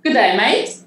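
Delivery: learner copying an Aussie greeting; lightly attempted Aussie accent; attempted Australian accent. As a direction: try the Australian greeting with a lift. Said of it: "Here we go, Jenny".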